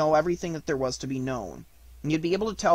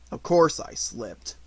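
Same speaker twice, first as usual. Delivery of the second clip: Eeyore voice; 2 semitones lower than usual. Acted. Eeyore voice, gloomy.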